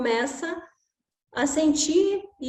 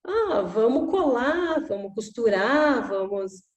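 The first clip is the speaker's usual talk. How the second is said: put-on eager child; slower than usual. Child suggests fixing toy.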